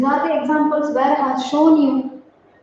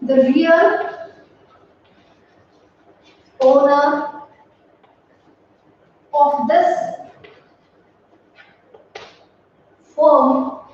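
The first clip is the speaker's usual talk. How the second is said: slow, word by word, like dictating to a class; dictation pace; slower than usual. Shown as a demonstration. Teacher dictating an example sentence, slow. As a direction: spell it out slowly for the students to copy.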